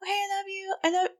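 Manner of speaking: whispered mock cooing. Mimicking phone couple.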